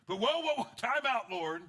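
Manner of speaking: high, loud whoa, time out; mock panicked interruption; loud alarmed stop. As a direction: throw up your hands and halt him. Peter stopping Jesus.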